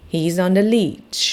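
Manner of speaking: He's on the leech, each word slow and separate; slow model sentence. Shown as a demonstration. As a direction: read He's on the leech very slowly for kids to copy. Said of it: "ลองพูดตามสิคะ".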